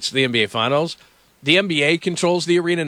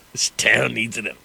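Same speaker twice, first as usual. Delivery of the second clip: Joker line; 4 semitones lower than usual. Retold or imitated. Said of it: "the Joker".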